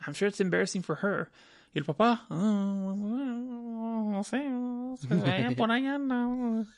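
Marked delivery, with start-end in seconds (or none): 1.7-6.7 higher, evasive mom voice with a laugh; evasive mom impression. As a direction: shrug off the question about the father, laughing. Mocking mom dodging dad question.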